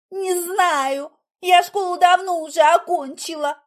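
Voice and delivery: high, loud defensive reply; flustered retort. A narrator's reading. Heroine defends forgetting school, flustered.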